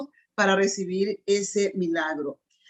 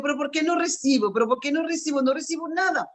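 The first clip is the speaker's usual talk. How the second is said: higher, plaintive mock whining; whiny complaint; 5 semitones higher, faster than usual. Preacher mimics believers complaining they receive nothing, higher mock whine. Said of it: "Y nosotros decimos".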